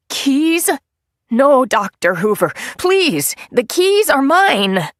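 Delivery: pleading. A narrator's reading. Nettie begging to keep keys.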